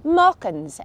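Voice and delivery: "Maukins" said with an Ulster Scots vowel; Ulster Scots word. Shown as a demonstration. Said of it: "Ulster Scots words and phrases I'd like you to listen out for".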